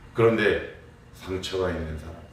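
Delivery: usual speaking voice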